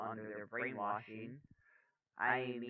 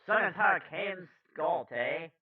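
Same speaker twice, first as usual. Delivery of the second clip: high-pitched attempt at Brooklyn, landing on Canadian; botched Brooklyn accent; 7 semitones higher, 11 dB louder, slower than usual. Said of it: "I tried to do Brooklyn".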